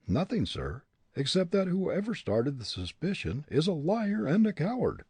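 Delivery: sharp retort. A narrator's reading. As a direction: fire back at the accusation. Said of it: "was the retort".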